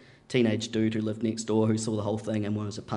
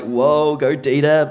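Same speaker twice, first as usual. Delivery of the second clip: excited cheer; 4 semitones higher, 9 dB louder, slower than usual. Retold or imitated. Cheering on dad.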